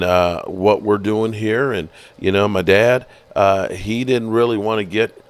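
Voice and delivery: lightly voiced team executive, halting with uhs; team executive impression. Son of the team's owner explaining himself, lightly imitated executive voice. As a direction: imitate a hesitant executive addressing the fans. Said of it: "You know what I can do".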